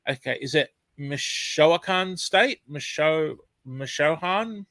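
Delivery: slow, questioning "Michoacan" with a rising end; unsure pronunciation. Shown as a demonstration. Host unsure how to say a viewer's Mexican place name, slow and hesitant. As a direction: try "Michoacan" hesitantly, as if checking. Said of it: "I'm hopeless with some pronunciations".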